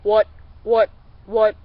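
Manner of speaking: "what" barked out loud and sharp like a duck quack; quack call. Shown as a demonstration. Showing a simple mallard quack as a loud "what". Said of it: "I open 'em up when I call".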